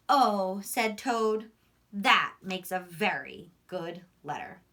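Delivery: slow, lively read-aloud storytelling; reading to children. A narrator's reading. Teacher reading Frog and Toad to her class, slow storytelling voice. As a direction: tell the story slowly, voicing Frog and Toad. Reads picture book aloud.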